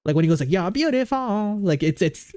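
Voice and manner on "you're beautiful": lightly imitated British pop singer's accent; half-sing it in his British accent; pop singer's accent. Shown as a demonstration. Showing chat the singer's accent, lightly imitated accent. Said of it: "that's his accent".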